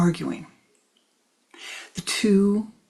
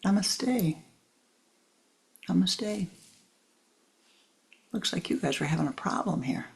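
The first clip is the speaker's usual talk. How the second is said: owl voice; 6 dB quieter than usual. Acted. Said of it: "from above".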